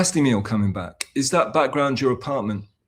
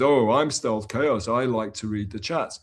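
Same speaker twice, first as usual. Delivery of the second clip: mild mock impression. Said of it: "When Crimax does an impersonation of me".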